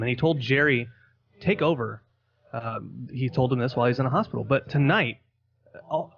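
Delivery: deadpan tall-tale podcast host; mock announcer intro.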